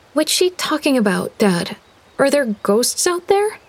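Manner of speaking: put-on a curious girl asking Dad; young girl's voice. Girl asks father.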